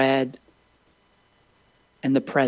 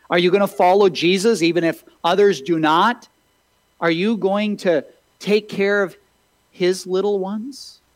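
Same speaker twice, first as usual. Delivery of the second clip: earnest preaching plea; 5 semitones higher, 3 dB louder than usual. Real, not acted. Preacher's altar-call questions.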